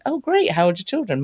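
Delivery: high, eager "Oh, great"; bright interested reply. Pretend. Chatting to Sarah about her children at networking, high and eager. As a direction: sound delighted to hear about her kids.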